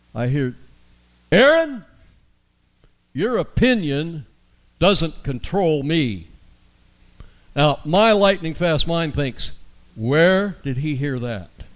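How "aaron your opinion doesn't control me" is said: put-on big, bold, grand-sounding kid voice. Retelling what a boy of about seven or eight said at the table, big booming voice. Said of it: "I hear this big booming voice".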